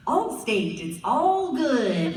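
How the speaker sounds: lightly mocked white announcer, stretched vowels; trying to sound white. Actor auditioning for an Allstate commercial, lightly faking a white voice. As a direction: draw out "all good" in a hinted white-guy read. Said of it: "very white for this".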